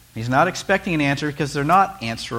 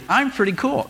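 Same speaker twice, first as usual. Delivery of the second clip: mock self-satisfied; 10 semitones higher, 3 dB louder than usual. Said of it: "when you're up here, you think".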